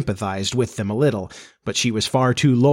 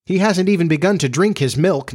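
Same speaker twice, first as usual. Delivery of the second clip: interposing; 6 semitones higher than usual. A narrator's reading. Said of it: "Nibs interposed".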